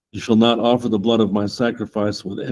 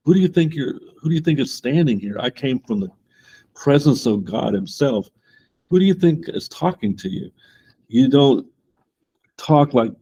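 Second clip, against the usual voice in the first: indignant angel; 4 semitones higher than usual. Retold or imitated. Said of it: "that was basically the reply".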